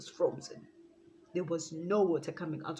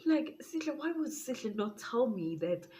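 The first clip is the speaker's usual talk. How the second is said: irritated outburst; 5 semitones higher than usual. Real, not acted. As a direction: vent the irritation. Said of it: "I got so irritated".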